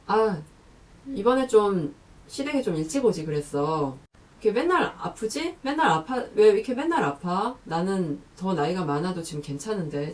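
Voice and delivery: nagging in-law. Acted. Mother-in-law needling a daughter-in-law who is always sick, mock-nagging. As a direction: lean on 맨날 like a reproach. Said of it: "이런 얘기가 나올 수도 있죠".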